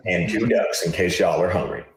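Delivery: hammed-up, pleased South Carolina local; South Carolina accent. South Carolina reporter announcing the kill, put-on Southern accent. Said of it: "probably a terrible South Carolina accent".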